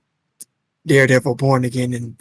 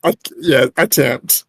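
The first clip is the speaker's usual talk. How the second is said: put-on Irish accent try; 3 dB louder than usual. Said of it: "Keyword attempt".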